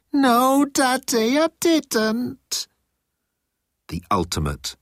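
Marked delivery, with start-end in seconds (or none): 0.1-2.7 very high whiny denial; childlike pleading.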